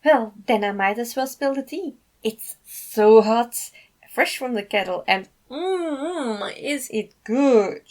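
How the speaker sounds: slow, loud relishing drawl; savoring gossip. Acted. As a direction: tease out the juicy news. Alex savoring spilling gossip.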